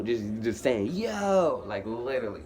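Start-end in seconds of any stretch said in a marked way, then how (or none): 0.9-1.6 loud, high retold holler; screaming. Detainee calling into the mic for attention, loud holler. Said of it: "just screaming in the damn mic".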